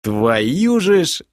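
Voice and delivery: high, drawn-out exclamation; startled cry. A narrator's reading. Narrator spotting an old acquaintance, startled cry. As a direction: cry out in shocked recognition. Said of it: "завопил я".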